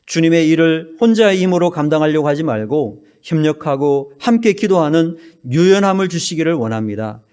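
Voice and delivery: earnest, measured prayer voice; closing prayer. Acted. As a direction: pray over the congregation with reverence.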